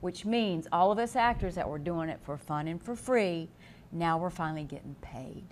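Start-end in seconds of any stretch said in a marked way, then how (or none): 1.7-5.5 soft, breathy aside; whisper. Real, not acted. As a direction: whisper it like a happy secret. Confiding whisper about pay.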